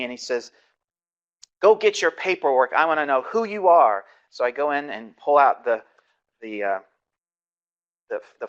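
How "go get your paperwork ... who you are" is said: retold shouting. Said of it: "he's screaming at me".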